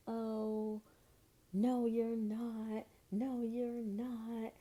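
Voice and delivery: a hint of an irate man; mock angry denial. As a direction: drag out the denial like an irate guy. Guy goes crazy at her claim.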